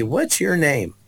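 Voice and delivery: gentle question. Retold or imitated. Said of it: "she said to me".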